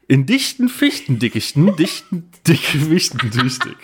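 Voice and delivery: tongue twister. Shown as a demonstration. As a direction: rush the twister a bit. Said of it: "Sage dreimal hintereinander".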